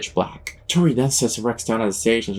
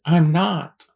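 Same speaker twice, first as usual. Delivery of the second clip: mildly hammed-up, higher denial; lightly acted protest, pitched up; high-pitched retort; 8 semitones higher, 4 dB louder than usual. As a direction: answer with a raised, rising voice. Acted retort in retold confrontation.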